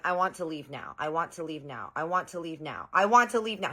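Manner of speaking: a mild mock tantrum that builds; building demand. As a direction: repeat I want to leave now, only the last time loud. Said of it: "He starts getting louder and louder".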